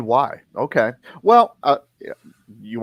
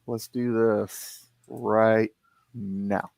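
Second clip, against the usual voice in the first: dramatic movie-trailer hush; 4 semitones lower, 7 dB quieter, much slower than usual. Pretend. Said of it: "Heck yeah".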